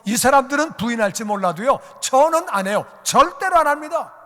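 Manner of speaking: high, loud, indignant protest; acted-out cocksure vow, building to emphatic; big-talking boast. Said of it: "큰 소리 빵빵 쳤는데".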